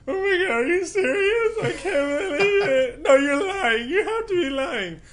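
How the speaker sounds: high, loud, tearful falsetto of a disbelieving wife; wife crying in disbelief. Retold or imitated. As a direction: squeal it through happy tears like his wife. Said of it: "while crying".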